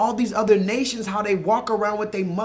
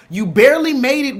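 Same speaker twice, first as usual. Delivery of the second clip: loud, higher exclamation; loud jab; 5 semitones higher, 8 dB louder than usual. Real, not acted. Host ranting at Will Smith, loud jab. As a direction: blast the line out. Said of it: "ranting about the movie".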